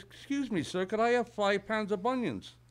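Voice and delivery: put-on high-pitched polite old lady; little old lady. Old lady asking a shopkeeper for onions, high old-lady voice. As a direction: pitch it up like a sweet-talking customer. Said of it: "a little old lady".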